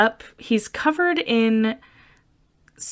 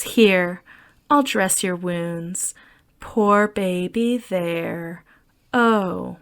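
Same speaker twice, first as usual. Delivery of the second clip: mild motherly coo; much slower than usual. Retold or imitated. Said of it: "and says".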